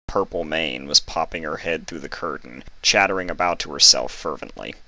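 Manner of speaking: steady storytelling read; story narration. A narrator's reading. Reader telling the story to viewers. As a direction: read the chapter like an audiobook. Reads fanfic chapter aloud.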